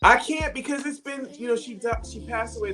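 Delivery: high, breaking with emotion; choking up as she speaks. Real, not acted. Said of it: "I'm gonna try not to cry".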